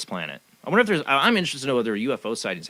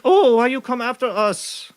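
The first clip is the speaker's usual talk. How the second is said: higher, slow, whiny mock protest; horrible mock impression; 13 semitones higher, 6 dB louder, slower than usual. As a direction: ham up an innocent-acting accuser. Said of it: "that horrible impression".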